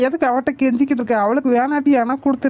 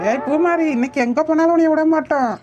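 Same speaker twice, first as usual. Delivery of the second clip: raised pitch, calling after a runaway; chasing shout; 5 semitones higher than usual. Acted. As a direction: call out to stop her escaping. Chasing the fleeing girl. (துரத்திக்கொண்டே கூப்பிடுவது)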